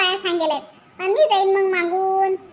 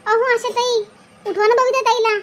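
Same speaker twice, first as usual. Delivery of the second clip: louder plea, nearly calling out; too loud; 3 semitones higher, 4 dB louder than usual. Acted. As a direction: call out without caring who is asleep. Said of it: "एकदम हळू बोला". (झोपलेल्यांना उठवेल इतक्या मोठ्याने हाक)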